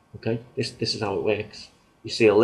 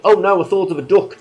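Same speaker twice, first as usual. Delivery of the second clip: smug listener; 11 semitones higher, 10 dB louder than usual. Retold or imitated. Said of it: "even when people say".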